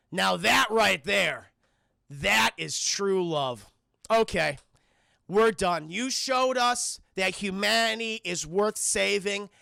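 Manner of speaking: slow, weighty mock-judge delivery; grand solemn pronouncement. Plants spare humanity for true love, slow grandiose verdict. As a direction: pronounce it with long dramatic pauses.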